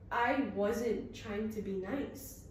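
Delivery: detached, unapologetic put-down; cool and blunt. Acted. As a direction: let it land flatly after a pause. Marjorie's cold reply.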